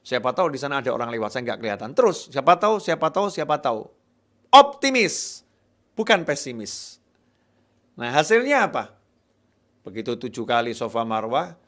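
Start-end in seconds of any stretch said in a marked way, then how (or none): 1.9-3.9 louder, quicker chant of siapa tahu; hopeful repeating. Acted. Preacher voicing the mother's hope while searching, louder and faster. 4.5-7.0 much higher, louder exclaimed word; emphatic shout. Real, not acted. Preacher stressing optimism to the congregation, high and loud.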